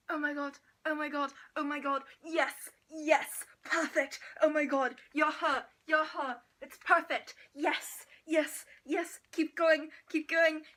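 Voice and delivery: loud, gushing mock praise; a hammed-up thrilled sculptor cheering her on; excited artist. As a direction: gush like a delighted artist at work. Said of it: "acting a thrilled artist in church".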